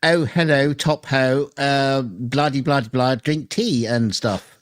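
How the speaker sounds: slow, hammed-up stereotype English accent; mock English accent. Co-host mocking the typical English impression in slow mock English. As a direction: lampoon the typical posh Brit, drawn out. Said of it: "You're gonna do the typical thing".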